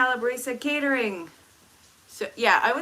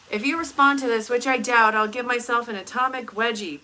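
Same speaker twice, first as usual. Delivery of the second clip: mock challenge; 2 semitones higher, 5 dB louder than usual. Reading a cheeky chat comment aloud.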